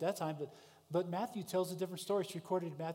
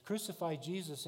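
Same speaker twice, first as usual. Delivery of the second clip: shouting crowd demanding crucifixion; crowd yelling; 3 dB louder than usual. Retold or imitated. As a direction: yell it like an angry mob. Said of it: "starts to yell and scream".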